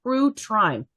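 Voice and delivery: "true crime" slowly with first sounds swapped, "crew trime"; spoonerism. Real, not acted. Tired host fumbling the topic, spoonerism. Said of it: "I told you I'm tired".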